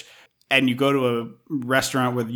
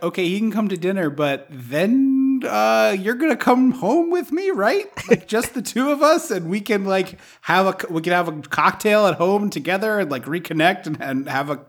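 high, coaxing pretend plea; pleading girlfriend; 6 semitones higher than usual. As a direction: sweet-talk him into going home. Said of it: "I'm like".

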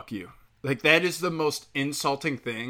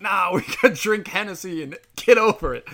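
much higher, louder, laughing party voice; airy brush-off, pitched way up; mock rapper laughing it off with Hennessy; rapper impression; 7 semitones higher, 5 dB louder than usual. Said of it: "he came out as like".

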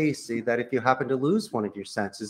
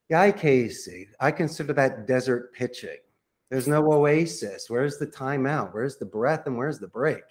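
slow paced pitch. Shown as a demonstration. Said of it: "every point ... delivered like a dessert tray".

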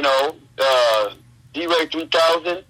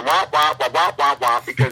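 muffled womp womp like Charlie Brown's teacher; droning trombone womp sounds; Peanuts teacher womp womp. Retold or imitated. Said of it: "like, you know, the Peanuts with the teacher".

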